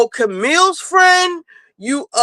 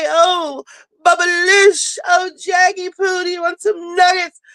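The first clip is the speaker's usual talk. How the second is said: mock Dorit pet talk; 5 semitones higher than usual. Mocking Dorit fussing over her dogs, hammed-up high cooing. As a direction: ham up a spoiled rich lady calling her dogs.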